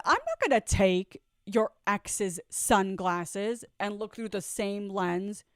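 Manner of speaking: slow, deliberate and pointed; retelling her own firm refusal, slowly; slow defiant retort. Retold or imitated. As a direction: spell each word out with attitude. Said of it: "And I'm like".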